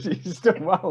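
high, soothing mum voice imitated; comforting mum. Mum comforting the crying coach, high and soothing. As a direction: play the mum consoling a sobbing stranger. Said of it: "She said".

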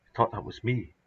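softly, shaken; quiet. Acted. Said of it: "he said quietly".

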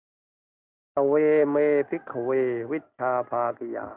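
slow, drawn-out Pali recitation; Pali scripture recitation. Acted. Preacher quotes scripture to listeners before translating, slow solemn recitation. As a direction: recite the scripture with long, held syllables.

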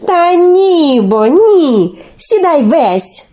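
high start falling into slow stretched words; insistent correction. Acted. Olenka corrects Telesyk on the shovel, drawn-out and insistent. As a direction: draw out the objection with impatience.

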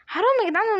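high, falling wail of unfairness; whining protest. Real, not acted. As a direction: cry out in a high complaining whine. Complaining after being killed.

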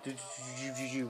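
imitated whirr of a little robot; quick mimicked movement sounds; robot noise. Vlogger showing how BB-8 rolls around, mimicked robot noise.

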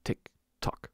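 whispered, soft and menacing; eerie whisper. Acted. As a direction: breathe the tick-tock like a threat. Ominous ticking of the clockwork.

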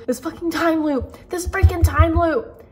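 mock exasperated outburst; retold snapping. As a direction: mildly act out someone losing it. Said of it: "like, snapping".

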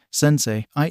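lightly cracking voice. Acted. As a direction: let the voice break a little on it. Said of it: "his voice cracking".

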